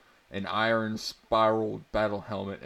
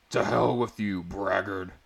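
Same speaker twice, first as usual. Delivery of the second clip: a bit louder, a half-hearted barbarian bellow; mild bellow; 3 dB louder than usual. Acted. Barbarian defying the drunk soldier, mild mock bellow. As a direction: lean in louder, but stay understated. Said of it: "bellowed the angered".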